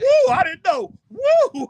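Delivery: high loud woo shouts; squealing woo, hammed up; mock whooping. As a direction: whoop it up in falsetto. Imitating Stir Crazy whoops.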